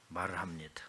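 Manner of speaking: usual speaking voice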